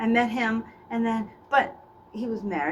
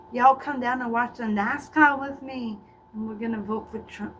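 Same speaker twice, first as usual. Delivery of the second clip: put-on Southern accent. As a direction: do a flirty Southern guy's accent. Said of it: "a Southern guy with an accent".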